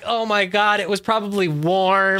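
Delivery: giggling through the words; high, laughing apology. Retold or imitated. Retold waking up after farting.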